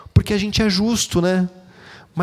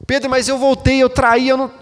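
higher, pleading voice of an unsure believer; doubting churchgoer; 7 semitones higher than usual. Retold or imitated. Pastor voices a churchgoer doubting to him, pleading. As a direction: whine the doubts up high, half-mocking.

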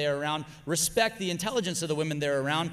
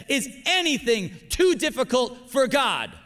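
preached question; 5 semitones higher, 4 dB louder than usual. Shown as a demonstration. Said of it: "say it like you believe it".

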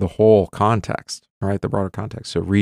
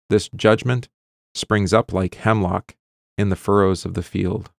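measured, solemn reading of Hosea to the class; scripture reading. Acted. Teacher reads Hosea to the class, solemn reading voice. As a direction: read the prophet's words aloud with weight.

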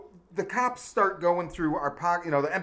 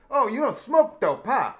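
mocking cop; 4 semitones higher, slower than usual. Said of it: "he's like".

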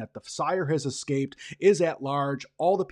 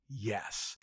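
much softer, lower, as if from underground; faint muffled reply; 4 semitones lower, 13 dB quieter than usual. Retold or imitated. Buried Baron answering from his grave, faint and low. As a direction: answer from deep below.

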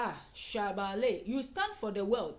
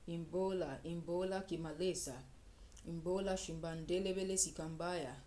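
steady murmured tongues, even rhythm, a little softer; praying in tongues; 3 dB quieter than usual. Acted. Pastor leading the congregation in private prayer, praying softly in tongues. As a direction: pour out a flowing stream of tongues under the breath.

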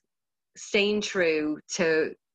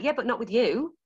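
giddy encouragement; 5 semitones higher than usual. Retold or imitated. Retold enthusiastic encouragement to beginner.

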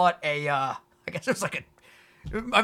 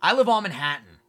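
"on" said as if it sounds odd; "I live on Manhattan" mocked as wrong; sounds weird; 4 dB louder than usual. Shown as a demonstration. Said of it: "it sounds weird".

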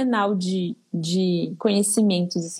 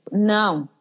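a plain, firm "não" as a prohibition. Shown as a demonstration. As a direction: say a short, serious no to a baby. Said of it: "com a entonação de não".

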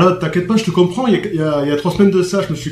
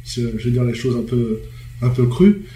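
hoarse voice; 4 semitones lower, 3 dB quieter than usual. Real, not acted. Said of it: "je suis enrhumé, j'ai la voix toute cassée".

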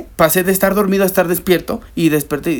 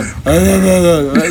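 mock eerie sleep-talk moan; drawn-out wordless groan, imitating a sleep talker; spooky noise made in jest; changed night-time voice; 3 dB louder than usual. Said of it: "cambiar la voz".

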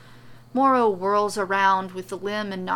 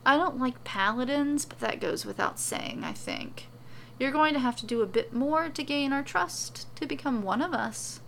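soft and pleasant; 5 semitones higher than usual. Acted. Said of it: "she says softly, almost pleasantly".

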